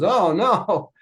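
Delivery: imitating a man realizing his blunder; a mock gasp of regret; retold dismay. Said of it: "And he goes".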